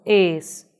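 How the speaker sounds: ES with a closed ê, drawn out slowly; closed, muffled sound. Shown as a demonstration. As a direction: model the muffled closed vowel in es. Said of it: "fechado, mais abafado".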